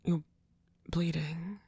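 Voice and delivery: worried hushed whisper. Acted. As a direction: whisper the word, concerned. Whispered worry about blood.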